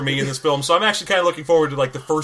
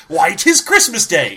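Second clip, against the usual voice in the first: gleeful Scrooge; 3 semitones higher, 5 dB louder, slower than usual. Pretend.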